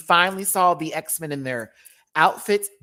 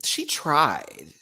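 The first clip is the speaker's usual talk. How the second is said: whispered she tried. Real, not acted. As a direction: whisper it pityingly. Pitying the singer.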